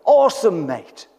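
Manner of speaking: preacher retelling a comedian's cheerful Australian; mock Aussie cheer. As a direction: play the cheery Australian, "awesome" bright and high. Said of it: "The Australian will say".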